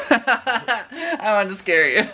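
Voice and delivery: laughing. Real, not acted. Laughing after scaring her partner.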